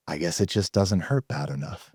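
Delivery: understated cashier shrug; quiet punchline. Retold or imitated. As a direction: let the line land quietly. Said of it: "he says".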